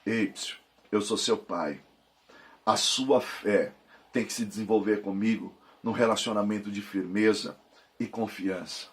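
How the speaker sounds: a hint of the voice of God as a loving father; gentle father God. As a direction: speak as God reassuring a scared child. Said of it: "o Senhor tá lhe dizendo".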